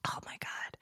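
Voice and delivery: unvoiced after a sip; whispered sigh of relief; breathy whisper. Real, not acted. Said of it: "I'm taking a sip of coffee".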